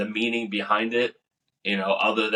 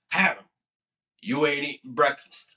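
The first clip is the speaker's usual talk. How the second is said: recruiter; 6 semitones higher than usual. Retold or imitated. Recruiter voiced in story.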